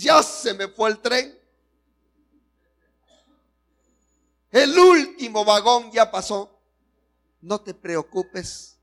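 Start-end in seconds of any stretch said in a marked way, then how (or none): 0.0-6.6 higher, louder mock lament; despairing girl. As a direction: wail it like a hopeless single girl. (lamento exagerado de muchacha, más agudo)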